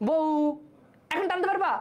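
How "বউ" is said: "বউ" with a short gliding উ that stops; half-pronounced vowel. Shown as a demonstration. Teacher testing if it stretches, "বউ" stopping short. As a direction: let the উ in "বউ" halt by itself. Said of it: "এখন কি তুমি টানতে পারবা?".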